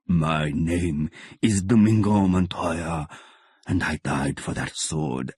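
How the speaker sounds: a ghostly father's slow rebuke; stern dead father. Acted.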